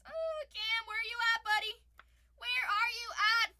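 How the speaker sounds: high, loud call; loud playful call. Real, not acted. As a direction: call for him across the room. Calling out to a viewer.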